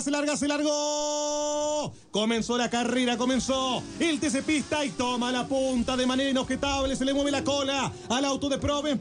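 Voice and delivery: live race call, building at the start; motorsport commentator. Acted.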